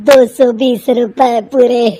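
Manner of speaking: a poor seller naming his price; humble street vendor, slow and polite; vegetable seller. Acted.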